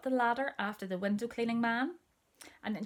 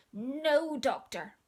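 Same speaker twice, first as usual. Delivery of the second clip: high, slow, louder no doctor; alarmed child; 6 semitones higher, 5 dB louder, much slower than usual. Acted. Little sister hearing a knock, high and slow refusal. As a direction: cry it out to keep the doctor away.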